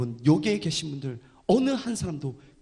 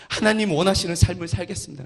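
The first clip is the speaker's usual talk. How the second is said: louder, resolute vow; firm declaration; 3 semitones higher, 6 dB louder than usual. Retold or imitated. Pastor repeating his dawn vow, louder and resolute. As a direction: declare it firmly. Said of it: "제가 결단했어요".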